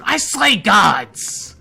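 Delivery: loud, slow heroic boast; booming boast. Acted. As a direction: proclaim it to shake the hall. Boastful hero declaration.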